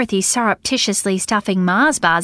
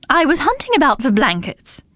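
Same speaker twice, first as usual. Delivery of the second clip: quick, businesslike and higher; brisk; 6 semitones higher than usual. Acted. Dorothy explaining herself to Bella, brisk. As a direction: brush past it briskly. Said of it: "continued Dorothy in a brisk voice".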